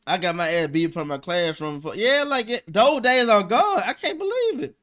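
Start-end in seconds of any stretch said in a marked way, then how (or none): 3.8-4.8 laughing. Real, not acted. Laughing about childhood beatings.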